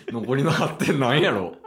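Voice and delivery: asking while laughing; giggling question. Real, not acted. Laughing at the score.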